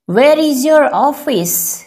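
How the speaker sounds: slow and careful, each word laid out; slow teaching take. Shown as a demonstration. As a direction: say it slowly for learners to copy. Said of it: "teacher repeats sentence twice". (धीरे और साफ़ बोलें)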